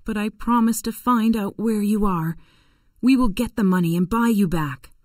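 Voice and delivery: tearful. A narrator's reading. Missus Shelby promises to buy Tom back, mildly tearful. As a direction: promise it with a touch of sorrow. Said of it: "stood there crying".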